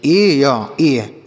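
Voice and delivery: ए stretched very long and slow, sung out like "aaa"; teacher slowly modelling the long ए vowel; drawn-out vowel demo. Shown as a demonstration. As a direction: draw out ए or ए slowly to show the sound. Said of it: "ए के रूप में पढ़ेंगे".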